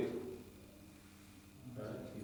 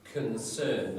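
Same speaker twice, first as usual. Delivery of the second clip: Concern with the weight on the second syllable; stress on second syllable. Shown as a demonstration. Teacher modelling a verb for class, stress on the end of Concern. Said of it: "notice, not concern".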